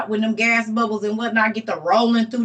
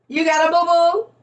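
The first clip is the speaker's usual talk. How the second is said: higher mock baby-talk tease; 7 semitones higher than usual. Teasing a limping friend in high baby talk. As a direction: coo it like to a toddler.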